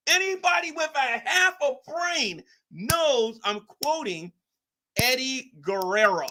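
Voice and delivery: high, slow put-on accent on the same line; mock Latino accent. Shown as a demonstration. Streamer repeats his remark to chat in a put-on voice. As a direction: repeat it in the wrestler voice. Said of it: "repeated in put-on voice".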